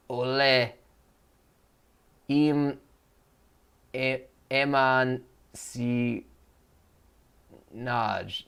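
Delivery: "'Ole, im, eman si Naj" spoken as reversed sounds, slow and drawn out; backwards speech. Acted. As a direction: say "my name is John" backwards, syllable by syllable. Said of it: "'Hello, my name is John,' backwards".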